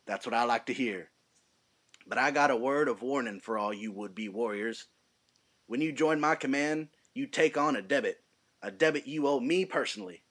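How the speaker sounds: put-on rally the recruits in a lightly done Southern accent; Brad Pitt as Aldo Raine. Lieutenant addressing his new recruits in a light Southern accent. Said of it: "I'm gonna be doing Brad Pitt's introduction scene".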